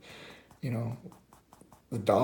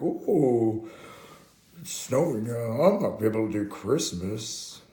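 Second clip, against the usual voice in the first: high, loud hammed-up fretting voice; Santa; 4 semitones higher, 5 dB louder than usual. Santa facing a bad storm, hammed-up worried voice. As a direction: fret loudly in a put-on character voice. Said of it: "then Santa goes up to him".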